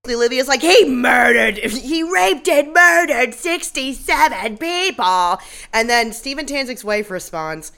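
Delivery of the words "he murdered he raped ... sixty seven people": angry shout. Retold or imitated. Olivia yelling at the wife.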